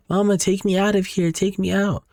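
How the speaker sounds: put-on high, thin toddler voice calling from below; eerie baby voice. A buried toddler calls up to her mother, high eerie baby voice. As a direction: sound like a ghostly two-year-old pleading. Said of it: "the two-year-old responding to her".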